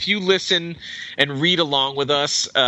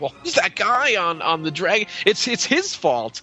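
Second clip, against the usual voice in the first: lightly acted, higher-pitched outcry; mock accusing onlooker; 4 semitones higher than usual. Host voices onlookers blaming Indy, mock accusing. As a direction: point the blame, playfully hammed up.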